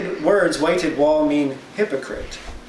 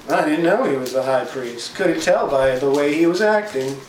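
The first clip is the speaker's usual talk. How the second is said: sarcastic. Retold or imitated. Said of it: "Said in a sarcastic tone".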